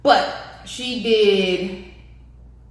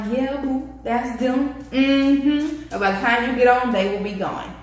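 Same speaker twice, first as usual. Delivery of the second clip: sassy; 3 semitones higher than usual. Retold or imitated. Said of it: "I'm like".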